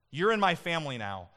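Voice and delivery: proclaimed. Acted. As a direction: announce it with conviction to the crowd. Jesus' words proclaimed in sermon.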